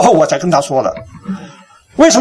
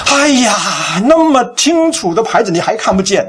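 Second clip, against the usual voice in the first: mock angry wife; 4 semitones higher than usual. Wife to husband who missed the sign, exasperated. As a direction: imitate a wife's annoyed disbelief. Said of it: "她生气了".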